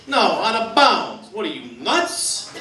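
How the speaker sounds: drawn-out, exasperated retort; mock yelling fan. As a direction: scoff slowly like an indignant sports fan. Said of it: "yells at the screen as if they could hear him".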